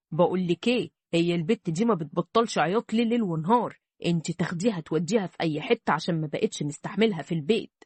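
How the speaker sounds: a hint of an irritated man fed up with crying; grumpy husband.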